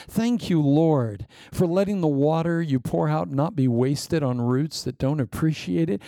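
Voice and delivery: fervent pastoral prayer, rising on each thank you; earnest prayer. Acted. Pastor praying aloud over the congregation, fervent prayer. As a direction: pray over the church with urgent devotion.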